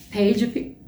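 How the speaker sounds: hiccuping mid-word; hiccups. Real, not acted. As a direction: cut off by a hiccup.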